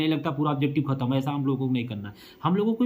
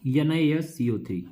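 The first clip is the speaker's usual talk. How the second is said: slow dictation; slower than usual. Shown as a demonstration. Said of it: "sir इसका सूत्र बताइए".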